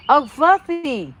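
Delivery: Southern drawl. Pretend. Teasing a friend on a livestream in a slow Southern drawl. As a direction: stretch it out like a Tennessee neighbor. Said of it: "when I talk like that".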